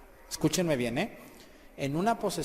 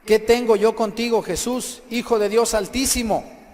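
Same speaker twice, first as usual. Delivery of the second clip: raised, higher, forceful voice of the possessed man; forceful cry; 5 semitones higher, 6 dB louder than usual. Retold or imitated. Possessed man confronts Jesus, crying out forcefully. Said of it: "y gritó con fuerza, con fuerte voz".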